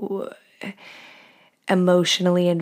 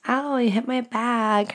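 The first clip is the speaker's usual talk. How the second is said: playing it cool; 4 semitones higher than usual. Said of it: "play it off and be cool".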